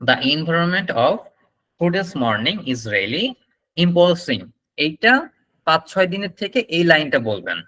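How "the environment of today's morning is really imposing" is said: slow model sentence, "today's" starting with ঠ; aspirated T in "today's". Shown as a demonstration. Teacher modelling the longer line for students, slow and careful. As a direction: slowly, puff the T of "today's". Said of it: "ঠ দিয়ে উচ্চারণ করবেন".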